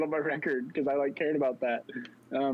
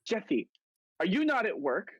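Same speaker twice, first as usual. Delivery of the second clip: high, lightly mocking boss asking; a hint of an annoyed manager; higher mocking manager voice; 7 semitones higher than usual. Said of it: "she was like".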